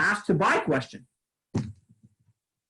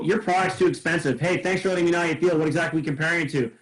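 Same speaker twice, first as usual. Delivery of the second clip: quick mock dialogue; faster than usual. Shown as a demonstration. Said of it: "it'll literally go".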